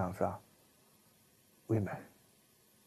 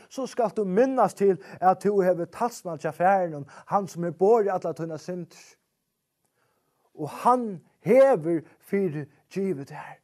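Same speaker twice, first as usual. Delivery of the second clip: loud, high fervent preaching; preaching at full force; 8 semitones higher, 9 dB louder than usual. Acted. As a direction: thunder it from the pulpit. (kraftig forkynnelse, høyt og ivrig)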